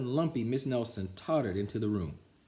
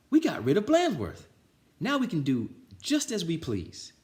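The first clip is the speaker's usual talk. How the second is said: high, loud triumphant cheer; cheering kids; 9 semitones higher, 5 dB louder than usual. Acted. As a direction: shout it in victory. Class cheers.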